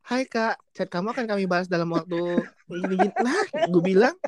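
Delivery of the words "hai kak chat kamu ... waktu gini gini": cheery auto-reply read; sweet admin greeting; customer service voice. Retold or imitated. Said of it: "Ini orang dagang apa katanya?". (suara admin layanan pelanggan)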